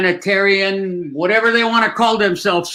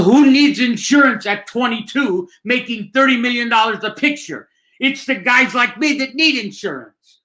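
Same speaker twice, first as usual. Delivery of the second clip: higher-pitched, worked-up retort; retold indignant protest; 6 semitones higher than usual. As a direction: argue your case with mild outrage. Retells own protest over cancelled insurance.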